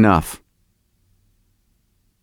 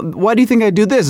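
higher, agitated comic protest; mildly het-up ranting; getting worked up; 5 semitones higher than usual. Real, not acted. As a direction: get riled as you explain yourself. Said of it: "you see how I'm getting all".

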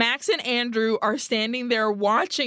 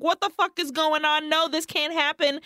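mock shocked outburst, pitched higher; shocked Amanda; 5 semitones higher than usual. Amanda shocked as Max kills Ted, in a mock panic. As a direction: play Amanda's disbelief, higher up. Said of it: "completely shocked".

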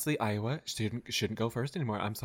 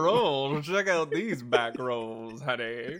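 Alyssa Edwards; 2 semitones higher, 3 dB louder than usual. Acted. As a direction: drag catchphrase, drawn out slowly. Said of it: "That is Alyssa Edwards' trade thing".

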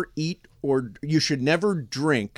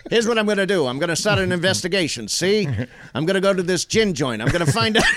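lightly voiced old-time tough guy; 1930s detective patter; thirties gangster talk; 3 semitones higher, faster than usual. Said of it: "Ron the dog's voice is thirties talk".

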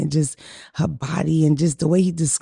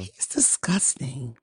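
low disgust; 5 semitones lower, 9 dB quieter, much slower than usual. Real, not acted. Disgust at Irv Gotti.

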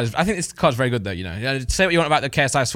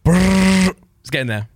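hype announcer voice; 5 semitones higher, 5 dB louder, much slower than usual. Pretend. Hyping up, announcer style.

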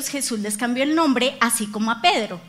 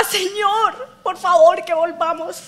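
mild pleading prayer; 4 semitones higher, slower than usual. Retold or imitated. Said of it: "Yo clamaba y lloraba".

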